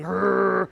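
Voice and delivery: put-on a rumbling rolled rrr like an old heater; radiator growl. Telling a Home Alone story, mimicking the basement radiator's growl. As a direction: growl it like a creaky radiator coming alive. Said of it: "the radiator going".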